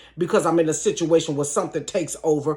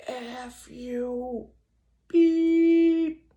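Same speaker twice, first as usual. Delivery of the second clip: retold yell; 7 semitones higher, much slower than usual. The man yelling as they speed off, high mock yell. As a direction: throw a mock yell after the car. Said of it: "I hear him yell".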